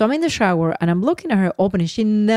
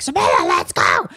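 husband hurrying; 12 semitones lower than usual. Retold or imitated. Imitating husband hurrying daughter.

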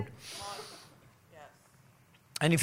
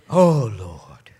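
whispered prayer; 4 semitones lower, 9 dB louder than usual. Retold or imitated. Imitating a praying person.

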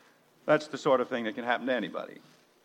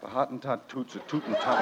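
laughing; 3 semitones lower than usual. Acted. Giddy rhyme on phone.

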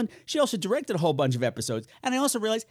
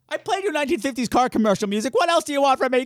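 mock exasperation; 8 semitones higher than usual.

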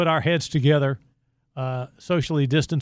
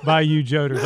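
mock indignation; 4 dB louder than usual. Mock complaint after teasing.

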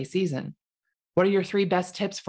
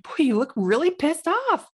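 self-critique; 9 semitones higher than usual. Retold or imitated. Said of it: "I'm like".

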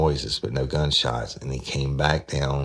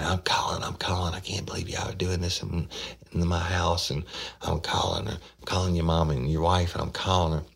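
higher, hurried mock of an upset grandma; imitating frantic grandmother; 6 semitones higher than usual. Grandmother catching them using drugs, mock frantic and higher. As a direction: play the grandmother threatening to phone, higher and rattled. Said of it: "she kept saying".

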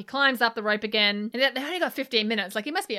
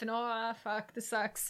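mild mock panic; 10 dB quieter, slower than usual. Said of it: "freaking out 'cause she's like".

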